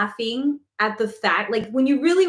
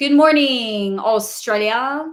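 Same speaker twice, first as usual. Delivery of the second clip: loud, very bad fake Australian accent; 5 dB louder than usual. Speaker trying out an accent impression, worst Aussie accent. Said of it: "that was like the worst Aussie act".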